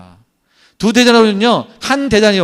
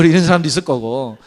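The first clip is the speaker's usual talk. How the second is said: ordinary delivery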